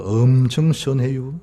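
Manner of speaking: slow Chungcheong drawl; unhurried Chungcheong accent demo; Chungcheong dialect. Shown as a demonstration. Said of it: "충청도".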